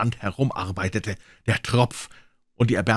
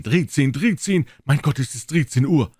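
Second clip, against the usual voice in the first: higher, louder dismay; alarmed cry; 5 semitones higher, 4 dB louder than usual. Acted. Old men crying out in horror at thirteen o'clock.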